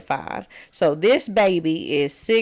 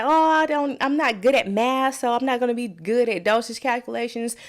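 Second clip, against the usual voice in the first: worried student; 5 semitones higher than usual. Retold or imitated. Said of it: "a lot of people say".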